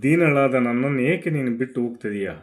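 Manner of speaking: grieving queen's lament over her fallen husband; a widow's loud, bitter lament; Tara lamenting. Acted. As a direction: wail it out to the dead king, reproachful and mournful.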